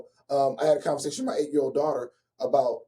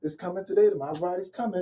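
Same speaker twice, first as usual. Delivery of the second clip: higher-pitched giddy buyer; mock excitement; 4 semitones higher than usual. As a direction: act out bragging about the new car's arrival. Acts out his excitement over buying car.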